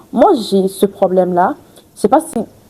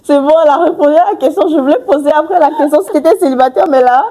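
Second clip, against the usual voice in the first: amused; 5 semitones higher than usual. Real, not acted. Teasing after laughing.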